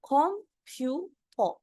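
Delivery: कंप्यूटर drawn out slowly as ompyuto with an o ending; Korean-style pronunciation. Shown as a demonstration. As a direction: stretch कंप्यूटर and close it on o. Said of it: "उसको ओ बना देते हैं".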